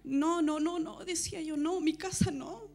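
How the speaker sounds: high, loud desperate pleading; recounted shouting. Retold or imitated. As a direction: cry out to the Lord as the house burns. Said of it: "Y empecé a gritar en ese momento". (gritando desesperada al Señor)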